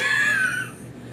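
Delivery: high-pitched burst of laughter. Real, not acted. Friend laughing after her mock wail, high giggle. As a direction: laugh high at your own impression.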